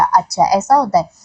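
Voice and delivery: low "oh, I see"; just finding out. Shown as a demonstration. Teacher repeats the reply to new information, realizing. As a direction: drop the pitch as the news sinks in. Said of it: "मुझे अभी पता चला".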